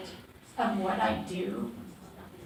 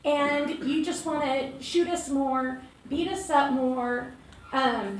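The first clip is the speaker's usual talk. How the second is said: emotional, fearful testimony; 3 semitones higher, 4 dB louder than usual. Real, not acted. Activist testifying to police commissioner, raised, distressed and pleading. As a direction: let the fear and hurt spill into every word. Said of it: "hear the emotion and the trauma and the fear in my voice".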